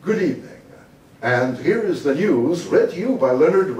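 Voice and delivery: lightly put-on news announcer delivery; broadcasting voice. Newsreader opening the broadcast on camera, broadcasting voice. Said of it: "with my broadcasting voice".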